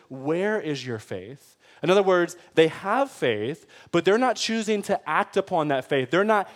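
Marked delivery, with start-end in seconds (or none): 0.1-1.6 soft, slow, kindly asked; gentle question. Pretend. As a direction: ask it gently, inviting. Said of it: "He says".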